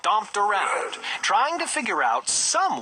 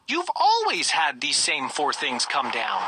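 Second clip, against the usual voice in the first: calming; 6 semitones lower than usual. Acted. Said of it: "Bartholomew tried to calm him".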